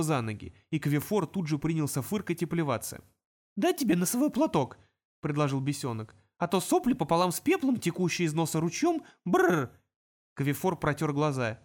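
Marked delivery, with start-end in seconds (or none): 3.6-4.8 high little imp voice, chattering. Acted. Imp warning the wizards about tunnels, high and chirpy. 6.4-9.7 imp. Acted. Imp teasing.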